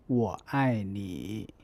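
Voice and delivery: 我爱你 spoken slowly, with 你 keeping its full dip at the end; slow demo with a full final dip; slow 我爱你 with a full final third tone; careful third tone. Shown as a demonstration. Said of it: "or at the end of a phrase".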